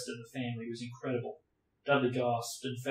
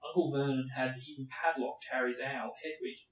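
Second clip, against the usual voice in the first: steady read-aloud narration; story narration. A narrator's reading. Reading Harry Potter aloud to viewers, steady narration. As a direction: read it like an audiobook.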